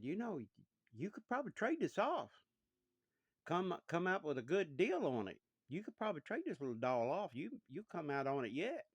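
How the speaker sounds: father selling his son on trading the doll; coaxing father. Acted. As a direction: talk the boy into a deal.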